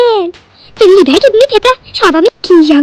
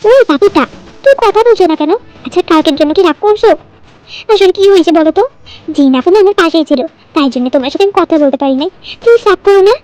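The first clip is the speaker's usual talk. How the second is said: put-on pleading girlfriend. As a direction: sweet-talk a sulking boyfriend. Girl pleads on phone with boyfriend. (প্রেমিককে মানানোর আদুরে গলা)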